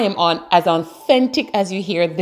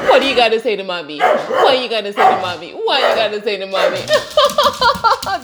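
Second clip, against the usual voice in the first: coaxing pet talk; 3 semitones higher than usual. Real, not acted. Coaxing the dog to speak.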